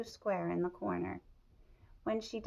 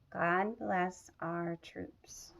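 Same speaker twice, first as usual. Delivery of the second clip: drowsy, trailing off at the end; a child almost asleep, slow at the end; sleepy voice; much slower than usual. Acted. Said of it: "she says in a sleepy voice".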